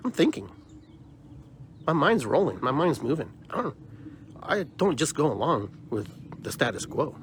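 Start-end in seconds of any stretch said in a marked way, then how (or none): 0.0-3.8 much higher, insistent protest; emphatic denial. Real, not acted. Answering viewers who think she's crazy, emphatic high denial. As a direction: push back sharply, voice jumping up. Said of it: "rebutting viewers".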